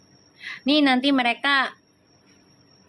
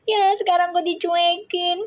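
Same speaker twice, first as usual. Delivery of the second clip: mock abandoned guy; 4 semitones higher than usual. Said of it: "Giran ditinggal nangis ya".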